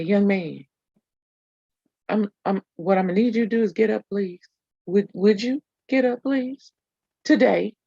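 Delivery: teacher politely telling a pupil to get up; calm teacher voice. Retold or imitated. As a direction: ask nicely but firmly. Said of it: "my best teacher voice".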